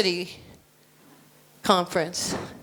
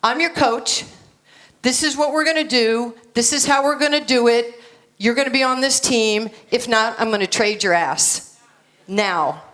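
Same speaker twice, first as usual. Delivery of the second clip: firm, louder orders with no room for debate; commanding coach; 3 dB louder than usual. Shown as a demonstration. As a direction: lay down the law to the team. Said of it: "No, I don't talk like that".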